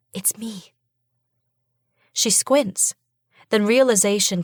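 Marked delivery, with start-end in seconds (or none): 0.1-0.7 soft, gentle, barely voiced; calm your terrified sister; quiet whisper. A narrator's reading. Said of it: "I whisper quietly".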